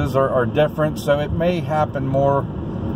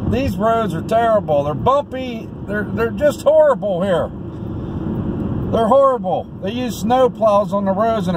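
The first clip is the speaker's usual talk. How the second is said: annoyed rant; 5 semitones higher than usual. Real, not acted. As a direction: vent about the awful roads. Venting about bumpy roads.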